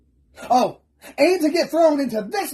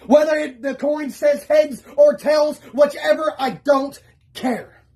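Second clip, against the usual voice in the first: raised, shouting in frustration; 3 semitones higher than usual. Real, not acted. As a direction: let it rip, fed up. Fed-up outburst, shouting.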